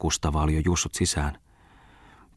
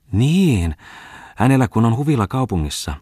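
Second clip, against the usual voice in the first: a louder, higher exclamation; exclaiming; 6 semitones higher, 5 dB louder than usual. A narrator's reading. Farmwife exclaims to the merchant about Ripatti, loud. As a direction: burst out with it. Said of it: "huudahti emäntä".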